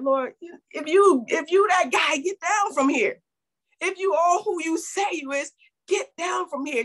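imitated thief's demand; taunting thief. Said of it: "the thief on the cross".

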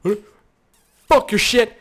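high, strained mock voice for the player; hammed-up panicked player; voicing the player. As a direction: act out the flailing player. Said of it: "He's like".

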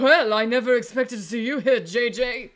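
lofty, arrogant noble voice; royal voice. Acted. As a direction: speak like a pompous royal. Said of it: "muster up a royal voice".

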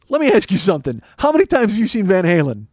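retold combative grilling; chewing someone out. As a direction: confront him with a pointed question. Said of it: "I'm chewing out this fucking guy".

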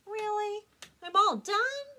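high, loud surprised duckling. A narrator's reading. Elmer to umpire, high surprised. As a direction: sound delighted it's over.

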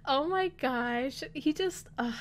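ordinary talk

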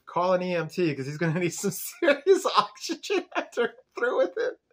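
cocky Cordelia. Retold or imitated. Cordelia telling her friends about Angel, cocky and amused. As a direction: brag like the hottest girl in the room. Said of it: "And then she's like".

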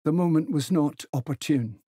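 prim, measured disapproval; stiff. A narrator's reading. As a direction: say it stiffly, on your dignity. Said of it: "McMaster said stiffly".

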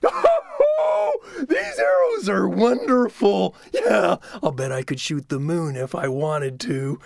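high slow boastful shout; gloating Coyote. Acted. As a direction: crow about it like a smug trickster.

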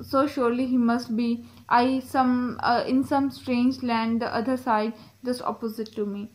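slow, careful poem reading; poem read aloud. Acted. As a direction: read the verse slowly, phrase by phrase. Reads the poem aloud slowly. (धीमे, ठहर-ठहर कर कविता पाठ)

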